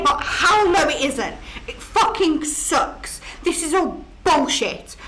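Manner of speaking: breaking down. Acted. Ghost breaking down angrily.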